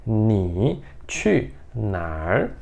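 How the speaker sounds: ni chu nar said slowly with a curled final R; Beijing accent. Shown as a demonstration. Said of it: "com outro sotaque".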